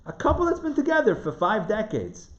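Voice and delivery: real, unplanned New York twang; New York accent. Real, not acted. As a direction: let a bit of New York accent creep in. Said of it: "A New York accent just came out".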